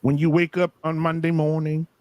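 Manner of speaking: preacher voice. Acted. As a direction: bless them with a gentle sermon. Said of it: "I'll go back to my preacher voice".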